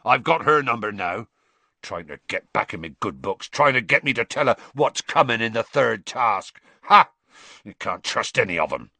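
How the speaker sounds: gruff, suspicious grumbling; bitter Hagrid. Acted. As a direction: grumble bitterly with a scornful outburst.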